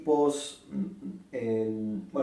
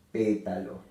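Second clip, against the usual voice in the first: pétalo, PÉ stressed, falling end; 3 semitones lower than usual. Shown as a demonstration. Teacher repeating pétalo after naming its stress. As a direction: lean on PÉ in pétalo. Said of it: "se acentúa en la antepenúltima".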